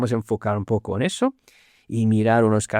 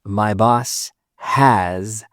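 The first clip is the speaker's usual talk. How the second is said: whispered repeat; 2 semitones lower, slower than usual. Shown as a demonstration. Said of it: "Y hace falta el a".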